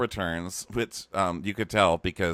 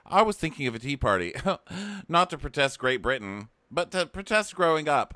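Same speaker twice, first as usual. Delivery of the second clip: whiny Kyle; 6 semitones higher than usual. Retold or imitated. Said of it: "Kyle was like".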